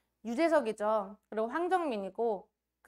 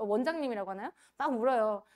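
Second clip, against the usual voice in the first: ordinary talk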